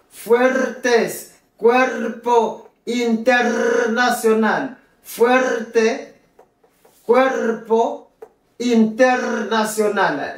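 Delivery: slow, high-pitched "fuertes, cuerpo, internacional" with trilled R; rolled R. Shown as a demonstration. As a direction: roll each R before T, P and N in "fuertes, cuerpo, internacional". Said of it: "Le lettre R la place devant N". (« fuertes, cuerpo, internacional » lentement, R fortement roulés)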